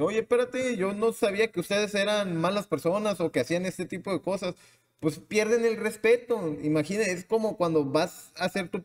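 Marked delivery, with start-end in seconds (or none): 0.0-4.5 startled mock reaction, pitched way up; taken-aback voice, much higher; stunned society. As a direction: sound caught off guard and offended. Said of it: "Ellos se quedan como que".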